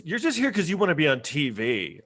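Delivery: mild mock anger from a reality-show contestant; a touch of indignation, barely voiced; retold mad quote. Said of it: "she was all mad".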